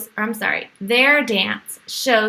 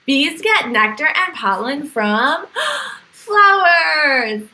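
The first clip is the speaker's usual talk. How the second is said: excited reveal; 3 semitones higher, slower than usual. Acted. Big reveal to children.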